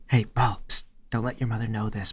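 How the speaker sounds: hushed aside to a teammate; secret whisper. Acted. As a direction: hide it from mother.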